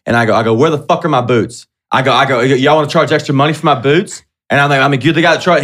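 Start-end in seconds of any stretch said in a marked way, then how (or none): 0.5-1.7 raised, higher-pitched angry demand; mock-furious shout at the shop guy; partly acted irate yell; retold yelling. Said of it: "just yelling about shit". 2.4-4.2 raised, higher-pitched angry demand; mock-furious shout at the shop guy; partly acted irate yell; retold yelling. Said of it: "just yelling about shit". 5.0-5.6 raised, higher-pitched angry demand; mock-furious shout at the shop guy; partly acted irate yell; retold yelling. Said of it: "just yelling about shit".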